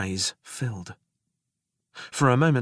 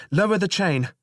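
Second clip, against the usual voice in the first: raised, firm command; 8 semitones higher, 5 dB louder than usual. Acted. Narrator and double commanding the jailer. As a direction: say it out loud, firm. Said together aloud.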